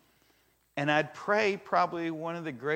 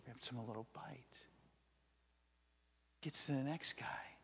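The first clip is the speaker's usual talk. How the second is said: hushed whisper; 13 dB quieter than usual. A narrator's reading. Quiet secretive narration.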